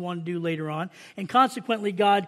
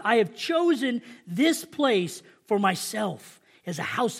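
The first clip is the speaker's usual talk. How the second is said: measured, emphatic Bible reading; scripture reading. Acted. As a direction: read God's words out to the congregation. Reads scripture aloud.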